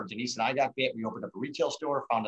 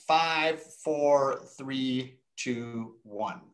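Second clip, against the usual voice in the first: measured countdown, falling in pitch and fading; much slower than usual. Real, not acted. Counting down the poll timer.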